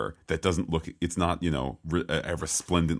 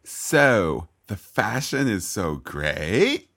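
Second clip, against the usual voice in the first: mock gushing host; 2 semitones higher, 3 dB louder, slower than usual. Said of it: "Who also was like".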